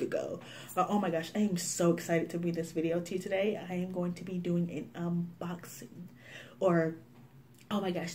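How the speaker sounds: a soft mocking influencer impression; mock gushing influencer. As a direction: parody a beauty YouTuber quietly. Imitating gushing vloggers.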